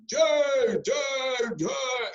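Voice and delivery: high, shouted chant response; inspired children. Retold or imitated. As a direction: imitate children cheering back eagerly. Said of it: "the children all get inspired".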